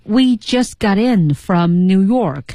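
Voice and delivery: very slow, each linking shown; slow rhythm demo. Shown as a demonstration. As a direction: spell out the rhythm slowly. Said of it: "我们看到了本句话的节奏". (放慢节奏示范)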